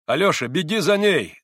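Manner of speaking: loud, high, impetuous order; urgent call. A narrator's reading. Mitya sends his brother after her, urgently. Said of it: "стремительно обратился к брату Митя".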